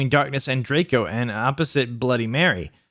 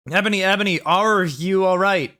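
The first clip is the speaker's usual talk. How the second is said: high, hammed-up concern; worried voice; 6 semitones higher than usual. A narrator's reading. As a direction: ask in exaggerated worry, drawing it out. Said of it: "Draco in a worried voice".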